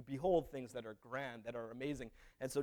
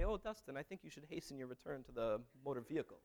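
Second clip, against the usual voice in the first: polite; 6 dB quieter than usual. Retold or imitated. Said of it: "politely say".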